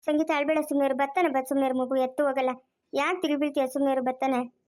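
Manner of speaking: low, gently consoling; soothing. Acted. Consoling a crying mother. (ಸಮಾಧಾನ ಮಾಡುತ್ತಾ, ತಗ್ಗಿದ ದನಿಯಲ್ಲಿ)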